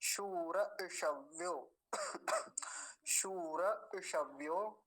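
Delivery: शूर ईशव्यो said slowly as one phrase; slow recitation; slow joined demo. Shown as a demonstration. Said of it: "पीछे से जोड़ लीजिए एक बार".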